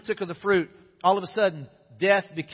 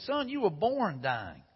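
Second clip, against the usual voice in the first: put-on old driver; 5 dB quieter, slower than usual. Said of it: "He said".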